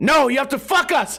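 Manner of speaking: put-on thick Puerto Rican accent. Retelling what Gonzo's dad told him about school, in a thick Puerto Rican accent. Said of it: "His dad has a thick accent".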